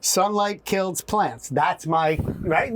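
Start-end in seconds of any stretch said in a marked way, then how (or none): 0.0-1.5 slow emphatic. Real, not acted. Punchline of research point.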